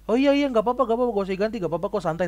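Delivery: high, loud cheerful no-problem; easygoing reassurance. Retold or imitated. Telling his friend not to worry about the phone, brightly reassuring. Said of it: "Ya, gua juga bilang".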